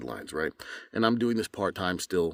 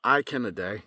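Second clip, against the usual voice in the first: Irish accent; 2 semitones higher than usual. Shown as a demonstration. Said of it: "Now from Ireland".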